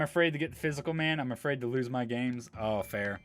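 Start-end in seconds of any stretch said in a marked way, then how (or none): none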